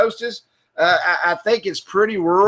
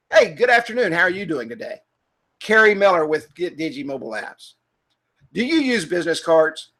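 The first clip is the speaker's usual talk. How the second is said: Dallas business greeting; 4 semitones lower than usual. Shown as a demonstration. Salesman walking into a Dallas business, composed professional greeting. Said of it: "Or if I'm in Dallas".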